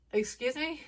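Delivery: incredulous, rising indignation; indignant. Real, not acted. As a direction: throw it back in disbelief. Indignant retort.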